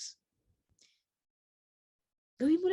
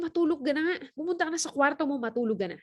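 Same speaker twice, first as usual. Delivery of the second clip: angry father; 3 semitones higher, faster than usual. Acted. Annoyed father sending his son to bed, mildly angry. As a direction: snap at the kid to go to bed. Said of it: "Nagalit lalo yung papa".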